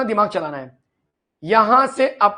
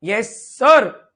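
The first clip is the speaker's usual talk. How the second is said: slow, stretched yes sir like a pupil; drawn-out student reply; 8 dB louder, much slower than usual. Pretend. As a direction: drag it out like a dutiful student. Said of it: "मजा आ रहा है?". (खिंचा हुआ छात्र वाला जवाब)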